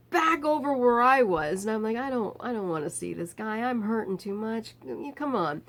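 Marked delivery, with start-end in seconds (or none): 2.0-5.6 softer, tired pained voice; too hurt to argue; weak protest. Retold or imitated. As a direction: narrator quietly protesting about the screamer. Narrator in pain, protesting.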